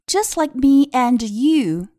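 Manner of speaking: read-aloud model. Shown as a demonstration. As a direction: read "just like me and you" slowly for learners.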